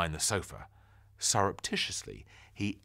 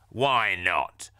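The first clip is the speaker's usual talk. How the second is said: nosy neighbour; 7 dB louder than usual. Acted. Neighbour demands.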